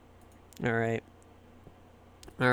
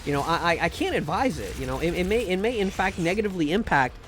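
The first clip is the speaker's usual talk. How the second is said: lightly voiced earnest GM. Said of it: "he'd be like".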